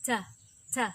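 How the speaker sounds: "t" said crisp and released; true T. Shown as a demonstration. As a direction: pop out a clear aspirated "t". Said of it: "For example".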